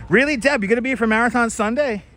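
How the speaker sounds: genuinely surprised. Real, not acted. Surprised question to viewer.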